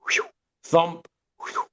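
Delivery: imitated thump and whew of a swinging cable; a lightly voiced thump-whew noise; mock thump and whoosh. Pianist imitating his miked piano's cable noise, mock thump and whoosh. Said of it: "so it would go thump".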